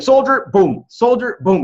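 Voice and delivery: imitating the dad, high and loud; dad gloating over the kill. Son mocks his dad killing players at Settlers, gleeful loud imitation. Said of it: "He's like".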